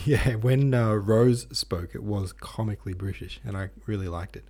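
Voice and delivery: breathless after a workout; panting slightly between words; out of breath. Real, not acted. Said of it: "If I sound like I'm out of breath".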